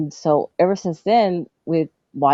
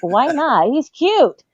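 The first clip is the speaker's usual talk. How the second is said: put-on girlish; 9 semitones higher, slower than usual. Child defending her crush.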